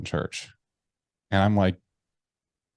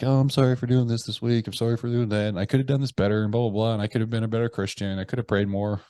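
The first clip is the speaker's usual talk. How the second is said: mock rote apology; 3 semitones higher than usual. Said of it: "usually it's just bullshit like".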